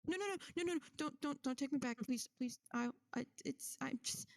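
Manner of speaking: stammering, pleading, high; nervous pleading. Acted.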